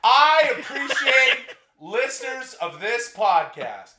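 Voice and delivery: slow and laughing; chuckling through the words. Real, not acted. Laughing while starting sincere words.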